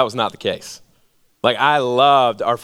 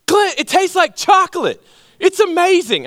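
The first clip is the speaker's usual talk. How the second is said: much higher, sing-song salesman coaxing; 4 dB louder than usual. Retold or imitated. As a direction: sell it sweetly like a kid's treat. Uncle coaxing boy to chew.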